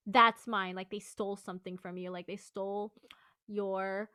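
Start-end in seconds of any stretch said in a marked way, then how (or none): 0.1-0.7 loud call across a distance; calling to a distant friend. Shown as a demonstration. Coach calling to a friend in the distance. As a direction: shout it to a friend far away. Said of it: "calling out to a friend in the distance".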